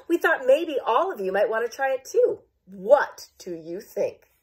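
bright question, slowing at the end; eager Virginia. Acted. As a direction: invite everyone in, drawing out the question. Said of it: "Virginia chimed in".

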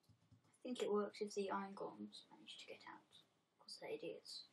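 whispering. Real, not acted. Aside about the golems.

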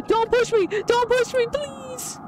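high, urgent begging; high-pitched frightened pleading; panicked plea. Real, not acted. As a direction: plead in a high panic, trailing into a thin squeal. Pleading not to be pushed in game.

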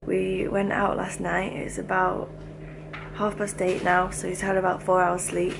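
quiet, hushed commentary; prank whisper. Real, not acted. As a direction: whisper so the sleeper won't hear. Prank setup while he sleeps.

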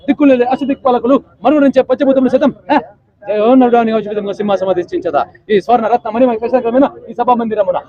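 lightly voiced NTR, grand declamation; NTR movie dialogue. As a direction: declaim it like a mild NTR film hero. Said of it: "NTR dialogue Yamadonga cinema చెప్తున్నా".

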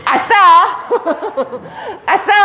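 laughing yelp of joy; gleeful cheer. Shown as a demonstration. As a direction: whoop at found money. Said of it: "그때 저희 뭐라고 그래요?".

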